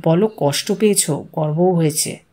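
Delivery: soft, low murmur into someone's ear; whispered in the ear. A narrator's reading. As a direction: lean in and prompt him under your breath. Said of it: "কানে কানে বলল".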